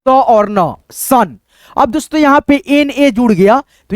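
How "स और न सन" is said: स and न said apart, then joined into सन; sound it out. Shown as a demonstration. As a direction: build सन from स and न. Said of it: "हम लोग पढ़ते हैं दोस्तों". (स और न जोड़कर सन बोलना)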